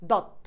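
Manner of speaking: দত্ত clipped to dot; half pronunciation. Shown as a demonstration. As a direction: cut দত্ত off on the first t. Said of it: "অর্ধেক উচ্চারণের জন্য".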